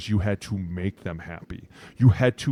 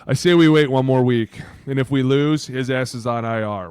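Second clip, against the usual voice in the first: mock team exec; 5 dB louder than usual. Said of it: "with the Ravens going".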